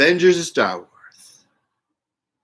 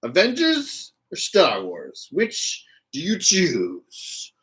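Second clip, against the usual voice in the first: dramatic choice; 4 dB quieter, slower than usual. Pretend. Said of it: "These are your choices".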